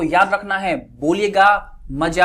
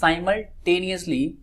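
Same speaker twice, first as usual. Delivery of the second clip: very slow, syllable by syllable; slow word; 4 dB quieter, much slower than usual. Shown as a demonstration. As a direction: spell out "Simultaneously" slowly for the class. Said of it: "क्या है भाई?".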